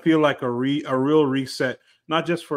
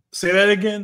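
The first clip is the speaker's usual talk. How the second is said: storyteller voice; 7 semitones higher, 5 dB louder than usual. Shown as a demonstration. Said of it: "kilometers teller voice".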